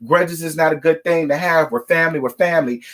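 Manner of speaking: sing-song mimic of a nagging refrain; mock him harping on the same line over and over; mocking repetition. Host mocking Joe's constant family talk, sarcastic parroting. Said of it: "get up here and harp on".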